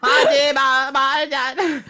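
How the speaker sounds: imitates through laughter; laughing. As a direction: repeat it, cracking up. Repeating friend's funny line.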